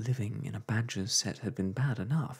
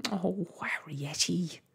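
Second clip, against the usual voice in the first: a slow, higher wail; 9 semitones higher, slower than usual. A narrator's reading. Mother wailing at her daughter, slow wail. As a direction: draw the wail out. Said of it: "wailed Homily suddenly".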